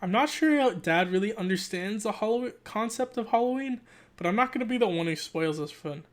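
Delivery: animated read-aloud narration; story narration. Acted. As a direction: read it like a kid's diary, lively. Reads the book aloud.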